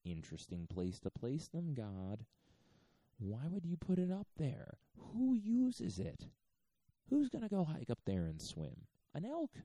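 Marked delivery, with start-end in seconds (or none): 3.2-9.5 high, loud incredulous questioning; mock outrage. Challenging God over mountaintop lakes, mock outrage. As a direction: pitch it way up, loudly baffled.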